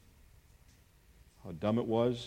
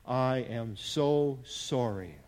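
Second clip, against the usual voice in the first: slow, understated retold apology; tearful apology, retold; much slower than usual. Preacher quoting his repentant father, understated tearful apology. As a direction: recount a heartfelt apology, word by slow word. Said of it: "with tears running down his face".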